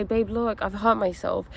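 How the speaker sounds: mildly pained appeal to a partner; expressing hurt. Acted. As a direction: show your pain without blaming, gently. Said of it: "you express how sad you are".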